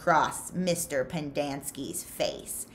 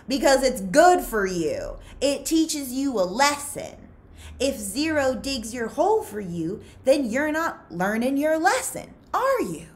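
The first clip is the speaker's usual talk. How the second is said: higher, louder voice of a sharp female warden; stern warden; 8 semitones higher, 6 dB louder than usual. Acted. Warden lecturing Stanley about the holes, higher and louder. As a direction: lecture him from above, rising to a pointed question.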